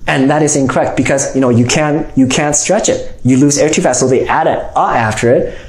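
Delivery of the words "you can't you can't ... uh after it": ordinary delivery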